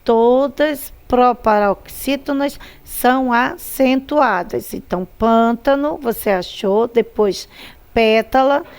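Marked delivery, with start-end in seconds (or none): 0.0-4.7 slow rule recital. Shown as a demonstration. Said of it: "Qual é a regrinha".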